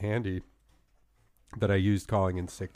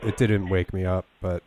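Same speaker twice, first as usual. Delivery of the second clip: fake sick voice. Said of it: "my fake sick voice".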